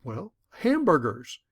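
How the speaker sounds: a mock defensive snap. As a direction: throw the accusation back. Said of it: "I could be defensive".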